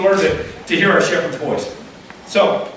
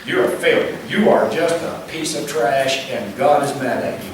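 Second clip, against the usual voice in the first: accusing voice; 5 semitones lower than usual. Acted. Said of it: "the voice that says".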